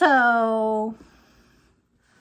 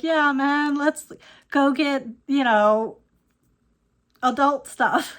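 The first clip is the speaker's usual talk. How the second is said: surfer dude; 3 dB louder, slower than usual. Retold or imitated. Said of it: "he sounds like the surfer dude".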